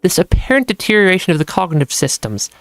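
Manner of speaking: measured story narration; lightly dramatized narrator reading; reading a letter aloud. A narrator's reading. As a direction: read it out as the letter writer's reflection. Reads in-game letter aloud.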